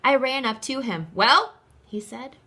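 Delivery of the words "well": conductor voice. Acted. Conductor addresses the boy.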